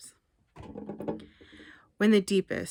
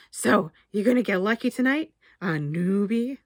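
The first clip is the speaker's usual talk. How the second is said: higher, louder teasing jab; teasing blowhard; 3 semitones higher, 6 dB louder than usual. Acted. Barry teases Damien about getting lucky tonight, leering. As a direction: needle him with a leer.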